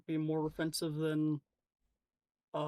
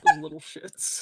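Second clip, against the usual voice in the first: much higher, louder squeal; joke shout; 11 dB louder than usual. Real, not acted. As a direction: shriek it mid-laugh. Joke shouted over the laughter.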